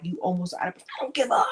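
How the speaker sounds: breathless whispered yelling; gasping the words out; out of breath. Retold or imitated. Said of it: "she was out of breath".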